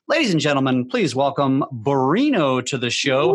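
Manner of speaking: announcer-style build to the guest's name; guest introduction. Acted. Host presenting the guest to the audience, announcer style. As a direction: bring him on like an MC.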